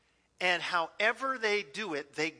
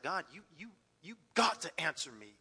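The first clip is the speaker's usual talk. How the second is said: retold desperate cry to God; 2 semitones lower than usual. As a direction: demand an answer from God, half laughing. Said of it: "And I cried out. I demanded God".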